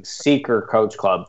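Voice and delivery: "Seeker" with the final t lost; misheard pronunciation. Retold or imitated. Showing what listeners misheard, "Seeker" without its t. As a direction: say "Seeker" for secret, dropping the t. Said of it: "people thought I was saying".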